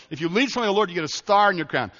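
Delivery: a hint of a patient mom explaining to her little son; mother teaching a boy. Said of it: "So she said".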